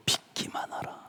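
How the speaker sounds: whispered, barely voiced; hushed whisper of a promise. Shown as a demonstration. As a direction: breathe the words like a secret. Preacher whispers Jesus's words.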